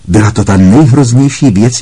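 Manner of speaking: nejhroznější pushed loud and high; a remembered cry, said out loud with force; urgent memory voice. Acted. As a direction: hit nejhroznější hard and loud. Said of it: "jakou jsem kdy v životě viděla".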